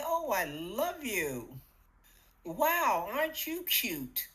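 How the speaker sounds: bright, affectionate coo to the mirror; cheerful self-love. Shown as a demonstration. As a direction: greet yourself like someone you adore. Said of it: "Can you hear the difference?".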